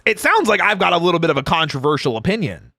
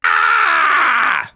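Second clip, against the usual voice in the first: mock scream. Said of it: "are listening to".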